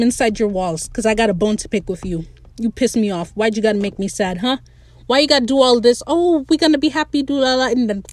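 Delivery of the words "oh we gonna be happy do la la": high mock-cheerful singsong; sarcastic la-la sweetness. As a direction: parody happy-go-lucky cheer, pitched up. Mocking the writer's happy setup.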